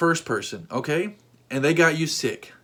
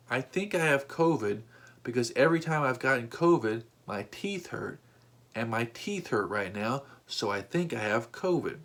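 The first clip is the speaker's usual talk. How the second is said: nonchalant; 3 semitones lower, 5 dB quieter than usual. Retold or imitated. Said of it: "He said it so calmly and nonchalantly".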